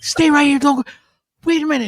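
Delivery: high, loud mock pleading; frantic fan. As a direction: blurt it like an overexcited imitated fan. Frantic fan begging him to stay.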